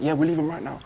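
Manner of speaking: loud, hurried backtracking; sudden switch. Retold or imitated. Caught-out driver telling passenger they're leaving, loud and abrupt. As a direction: imitate a driver suddenly changing his story. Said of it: "he changes instantly".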